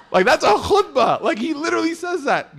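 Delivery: high, laughing through the words; giggling high and loud. Real, not acted. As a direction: laugh while telling it. Laughing while retelling.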